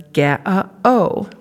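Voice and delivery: put-on ga-a-o as three babbled vowel syllables, childlike; toddler babble. Shown as a demonstration. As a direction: say ga-a-o like a toddler trying a singer's name. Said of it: "pronounce a word like a singer's name as".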